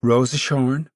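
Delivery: a stern call of her name; stern mother calling her daughter. A narrator's reading. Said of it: "And she said sternly".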